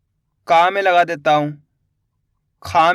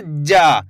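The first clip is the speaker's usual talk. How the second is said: जा pushed out with force; emphatic demo; 5 semitones lower than usual. Shown as a demonstration. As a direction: stress जा and hold the aa. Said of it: "उच्चारण में थोड़ा जोर लगा देंगे". (ज़ोर देकर लंबा जा)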